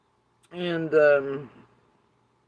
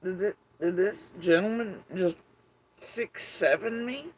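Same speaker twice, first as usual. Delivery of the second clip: disbelieving inner voice; 5 semitones higher than usual. Retold or imitated. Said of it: "I was like".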